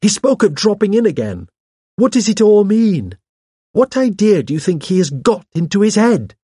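very high, agitated questioning; rising shrilly. A narrator's reading. Hawes frets to the vicar about a visitor's intentions, shrilly. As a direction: let the panic push the voice right up. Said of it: "His voice rose shrilly".

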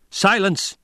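high, loud roar; roared command. A narrator's reading. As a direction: roar the single word. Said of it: "Paul roared".

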